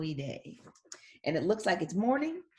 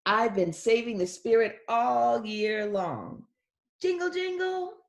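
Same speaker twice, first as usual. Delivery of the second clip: slow, then a much higher jingle jingle; sing-song the jingle like bells; playful little girl; 4 semitones higher, 4 dB louder, slower than usual. Acted. Reads girl's lines.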